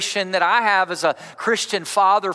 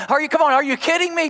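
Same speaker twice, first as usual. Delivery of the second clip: mock exasperated, fast and higher; 5 semitones higher, much faster than usual. Shown as a demonstration. Pastor demos for the congregation, mock exasperated. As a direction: throw up your hands, are you kidding me. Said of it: "look at them exasperated and say".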